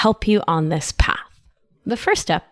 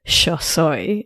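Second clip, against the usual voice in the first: Argentine Spanish, yo soy said sho soy; Argentine accent. Shown as a demonstration. Host repeats it in her own Argentine accent. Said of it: "in my accent".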